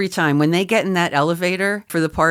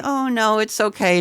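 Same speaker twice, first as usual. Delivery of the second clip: sweet nice voice; 5 semitones higher than usual. Retold or imitated. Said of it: "try to be nice and to say".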